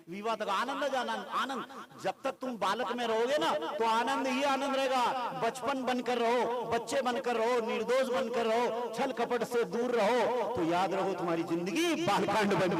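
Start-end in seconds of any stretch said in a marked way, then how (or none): 2.0-10.5 raised, urgent exhortation on सागर... बनकर रहो; fervent preaching. Real, not acted. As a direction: drive each बनकर रहो home. Preacher urging childlike joy.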